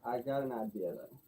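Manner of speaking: muffled, distant mic; speaking from across the room; far from mic. Real, not acted. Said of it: "it sounds like you're across the room".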